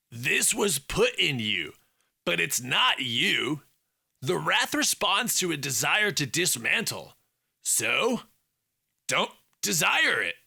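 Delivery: lightly voiced buddy soothing a struggling friend. A narrator's reading. Felix coaching Alex softly.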